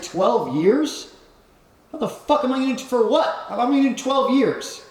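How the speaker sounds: high, incredulous what-the-hell; replaying the shock of hearing the sentence; retold disbelief. Retelling his prison sentence to the podcast host, disbelieving. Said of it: "I was like".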